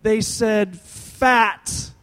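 high, loud, drawn-out announcement; shouted comic reveal. Retold or imitated. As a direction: blurt the terrible word in mock horror.

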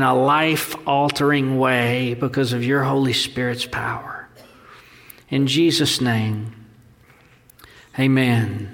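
low, measured prayer voice. Real, not acted. Leads the congregation in prayer.

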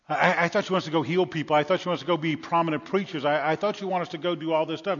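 loud, fast, bewildered protest; confused disciple. Acted. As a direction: protest in disbelief.

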